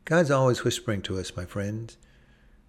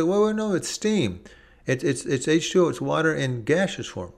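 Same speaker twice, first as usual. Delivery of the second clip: higher, excited interjecting listener; a listener bursting to correct you; eager objection; 5 semitones higher than usual. Pretend. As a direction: jump in eagerly, a bit higher. Imagined person correcting excitedly.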